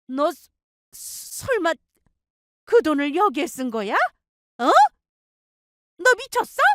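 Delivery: put-on high, sharp scolding older woman; angry mother-in-law. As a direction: snap at the daughter-in-law from the first word.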